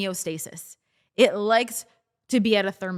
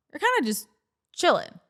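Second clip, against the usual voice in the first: much higher, airy and light; breezy; 7 semitones higher than usual. Shown as a demonstration. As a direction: float the word up, carefree. Showing the relaxed chilled state.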